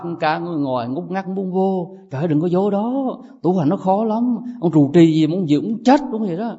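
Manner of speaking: a lightly voiced young monk whining to his parents about temple life; complaining young monk. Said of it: "Mình về mình nói".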